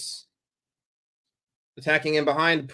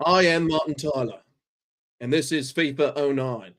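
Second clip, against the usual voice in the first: Martin Tyler. Acted. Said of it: "do this in an English accent".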